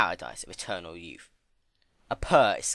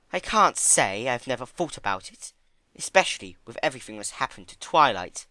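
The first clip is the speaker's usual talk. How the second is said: a bit higher, musing; thoughtful Rarity; 4 semitones higher, 4 dB louder than usual. Acted. Rarity answering Fluttershy, thoughtful. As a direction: think aloud.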